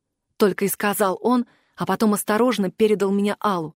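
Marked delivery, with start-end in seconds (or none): none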